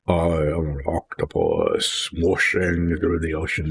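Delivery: grand octopus voice. Pretend. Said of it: "the octopus you would think would be".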